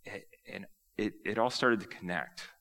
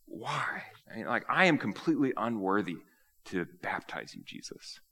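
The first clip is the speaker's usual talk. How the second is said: a touch of stunned disbelief, fading to a hush; mildly astonished plea that trails off; understated shocked John; flabbergasted; 3 semitones higher than usual. Acted. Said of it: "he is, like, flabbergasted".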